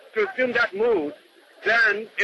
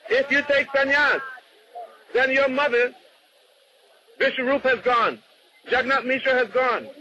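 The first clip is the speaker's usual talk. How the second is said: righteous challenge; 4 semitones higher than usual. Retold or imitated. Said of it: "he takes a very strong leftist mood".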